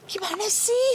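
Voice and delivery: high, incredulous question; retold disbelief. A mother recalls asking her friend how it happened, incredulous. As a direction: ask how this could happen. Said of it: "saya bilang gitu".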